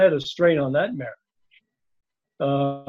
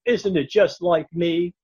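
Betty Davis; 2 semitones higher, 3 dB louder, slower than usual. Retold or imitated. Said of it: "she was doing a Betty Davis impersonation".

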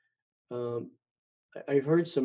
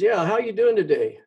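higher and louder, fake-friendly recorded voice; mock robocall sheriff; 8 semitones higher, 7 dB louder than usual. The recorded sheriff call asks how he is, mock cheery. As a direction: sell it like a canned friendly caller. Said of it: "He says".

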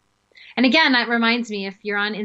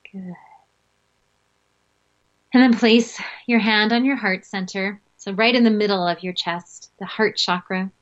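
guided meditation. Acted. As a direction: lead them calmly into the breath. Leads breathing meditation.

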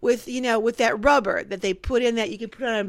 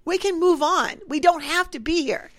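retold plea; 5 semitones higher than usual.

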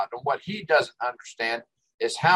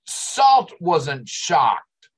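drawn out; 3 semitones higher, 3 dB louder, much slower than usual. Real, not acted. Insisting against online critic.

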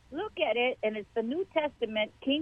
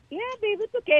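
reassuring; 12 semitones higher, faster than usual. Retold or imitated. Comforting the young visitor.

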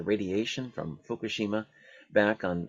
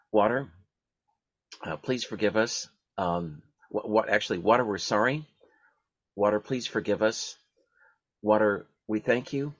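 prayer recitation. Acted. Leading listeners in the water prayer, calm recitation. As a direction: lead the group through the prayer one line at a time. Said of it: "please say it with me".

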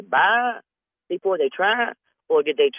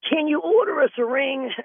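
mock scammer; 11 semitones higher than usual. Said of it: "I like this one".

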